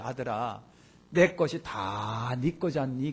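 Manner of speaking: low, slow, reassuring acted father; tender father. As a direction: gently soothe an upset son, drawing it out. Preacher voices father answering elder son.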